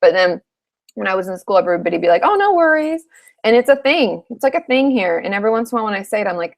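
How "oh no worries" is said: high, breezy Southern California lilt on Oh, no worries; imitating a laid-back SoCal classmate; lightly mocking, much higher SoCal breeziness. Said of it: "no worries is such a SoCal thing".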